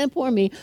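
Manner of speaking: badly faked sobs of self-pity; mock crying. Preacher showing the wrong kind of cry, mock sobbing. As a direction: pretend boo-hoo sobbing, then poor me. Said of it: "Or cry means".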